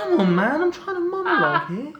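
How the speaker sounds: high, loud, hurried protest; exasperated. Acted. Villain scolds prisoner for spoiling his monologue, exasperated. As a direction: protest the interruption, voice shooting up.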